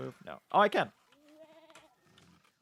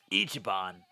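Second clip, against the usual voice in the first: gruff voice; 4 semitones lower, slower than usual. Retold or imitated. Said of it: "they're not so gruff".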